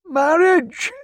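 put-on high, scandalised old clerk's exclamation; muttering old clerk. A narrator's reading. Old clerk walking out, appalled at the marriage request. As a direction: spit the word out in disgust.

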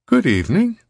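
high, theatrical stage greeting; showman's high-pitched hello; Riviera. A narrator's reading. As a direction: greet the audience, swooping up high. Riviera greets his audience on stage.

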